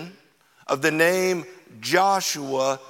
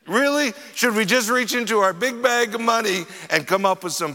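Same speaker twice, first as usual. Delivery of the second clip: sarcastic. Retold or imitated. Disciples answering Jesus, sarcastic and fast. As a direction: roll your eyes at the request. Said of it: "They're pretty sarcastic".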